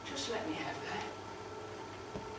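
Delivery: slow, breathless whispered plea; broken whisper. Acted. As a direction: barely breathe the words out, very slowly.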